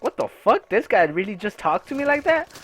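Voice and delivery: mildly heated, incredulous inner voice; retold indignation. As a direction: replay your disbelief at being talked to like that. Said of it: "I got heated".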